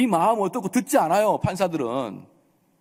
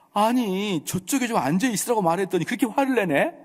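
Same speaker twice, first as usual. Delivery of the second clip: higher, innocent-sounding excuse; self-justifying protest; 5 semitones higher than usual. Retold or imitated. Quarreler explaining to the pastor, mock innocent protest. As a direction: imitate protesting you only asked politely. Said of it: "제가 물었습니다".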